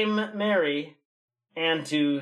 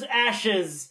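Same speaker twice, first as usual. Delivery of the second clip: excited shout; 3 semitones higher than usual. Real, not acted. Excited reveal.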